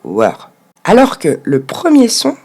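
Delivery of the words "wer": "wer" as a full drawn-out syllable; wrongly split syllable. Shown as a demonstration. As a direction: say "wer" alone, French learner style. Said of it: "vous ne découpez pas le mot comme il faut".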